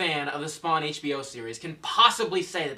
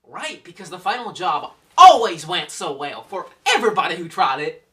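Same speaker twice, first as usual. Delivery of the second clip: put-on louder, drawling Southern accent; a sarcastic jab in a put-on Southern accent; 2 semitones higher, 10 dB louder than usual. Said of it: "I don't know why I did a southern accent".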